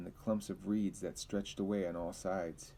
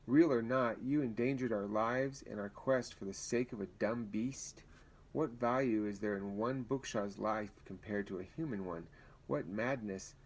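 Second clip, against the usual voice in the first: put-on Brandon scolding the boy, menacing. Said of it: "leaning over him menacingly".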